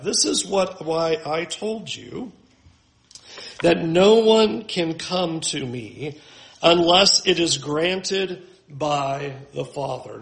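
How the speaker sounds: slow, deliberate scripture reading; slow emphatic reading. Shown as a demonstration. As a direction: read it slowly, leaning on no one. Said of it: "notice what Jesus says".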